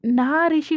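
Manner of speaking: "నా" drawn out before Rishi; stretched నా. A narrator's reading. Jealous Vasu claims him to Sneha, stretching "నా". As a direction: stretch the word "నా" possessively. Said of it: "కొంచెం stretch చేసి చెప్తుంది".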